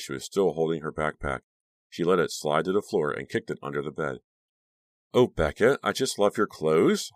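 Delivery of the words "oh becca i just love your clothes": slow, gushing admiration. A narrator's reading. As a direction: lay the praise on thick. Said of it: "Honey gushed".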